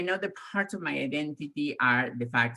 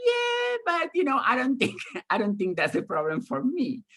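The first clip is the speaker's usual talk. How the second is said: casual shrug; 11 semitones higher than usual. Retold or imitated. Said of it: "So I'm like".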